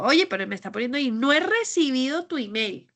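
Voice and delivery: fast, irritated read of an email, rising; annoyed reading. Retold or imitated. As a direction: rattle it off as if the sender is nagging. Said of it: "lo empiezo a leer yo diciendo". (lectura rápida y molesta del correo)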